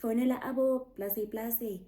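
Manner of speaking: half-shouting across to a friend; retold shout. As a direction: call out to her friend to phone the guys. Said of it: "I shouted to my friend".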